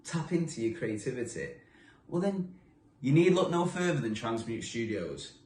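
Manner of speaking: lively radio promo voice, selling every event; upbeat ad read. Acted. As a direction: pitch the studio like a radio advert.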